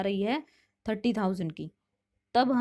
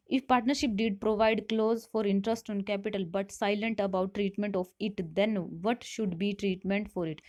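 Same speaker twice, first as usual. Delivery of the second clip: reading the question out slowly; measured, deliberate classroom read; slow quiz reading; much slower than usual. Shown as a demonstration. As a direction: spell out each option for students.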